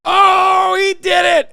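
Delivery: high, loud gleeful yell; real excited outburst; excited shout. Real, not acted. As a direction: shout in delighted disbelief. Streamer reacting to clip.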